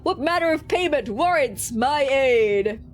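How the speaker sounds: arrive grandly as a demon lord; booming demon. Acted. Demon summoned from its plane, booming and proud.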